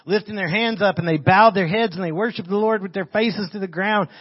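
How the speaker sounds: projected Bible reading, pitched slightly up; scripture reading. Acted. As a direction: read the verse out to the congregation. Reads scripture aloud to congregation.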